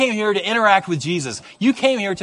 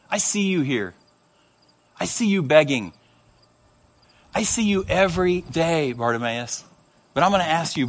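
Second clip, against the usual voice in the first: tender Jesus; 2 semitones lower than usual. Retold or imitated. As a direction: speak to him gently, one phrase at a time. Jesus speaking tenderly to beggar.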